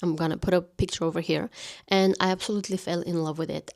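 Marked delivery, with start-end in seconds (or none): 1.9-3.7 breathless, rushing the words; out of breath. Real, not acted. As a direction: talk while short of air. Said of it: "I'm running out of breath".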